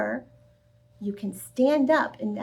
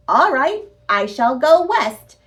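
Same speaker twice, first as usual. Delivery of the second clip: proud declaration; 2 semitones higher, 6 dB louder than usual. Acted. Camilla proudly declaring she goes west, louder. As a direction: announce it grandly.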